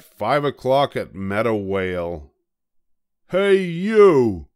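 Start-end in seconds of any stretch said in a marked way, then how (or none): 3.3-4.5 high, loud, grumpy little bug; a tiny bug spoiling for a fight, high and loud; grouchy ladybug. A narrator's reading. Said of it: "said the grouchy ladybug".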